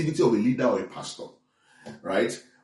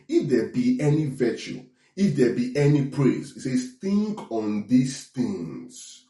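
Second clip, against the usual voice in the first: scripture reading. Acted. Preacher reads the Philippians passage.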